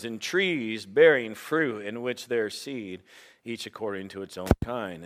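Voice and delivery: solemn scripture reading voice; booming biblical narration. Acted. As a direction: read Genesis aloud with gravity.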